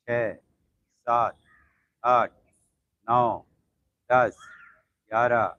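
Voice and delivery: steady counting of reps; yoga count. Acted. Yoga teacher counting leg circles for the class, even and steady. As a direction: count the class through each set evenly.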